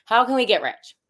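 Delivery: put-on French accent. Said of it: "should I use a French accent?".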